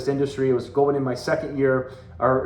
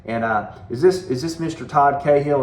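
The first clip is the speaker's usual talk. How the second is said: put-on Southern accent. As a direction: imitate a Southern coach introducing himself. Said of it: "he had a Southern accent".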